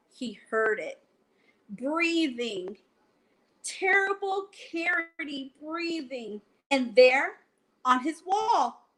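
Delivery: reading a bedtime picture book aloud; lively read-aloud to children; story narration. A narrator's reading. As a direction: tell it like a bedtime story for kids.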